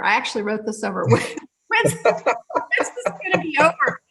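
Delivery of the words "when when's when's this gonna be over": higher imitated whine breaking into laughter; laughing mock complaint. Client asking practitioner to end session, laughing mock complaint. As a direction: quote the impatient client while laughing.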